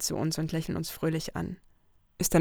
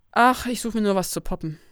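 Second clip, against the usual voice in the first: loud, brazen, higher; cheeky Lucy; 4 semitones higher, 8 dB louder than usual. Acted. Lucy brazenly explains she is looking for a hookup on Tinder, loud and cheeky. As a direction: toss it off shamelessly.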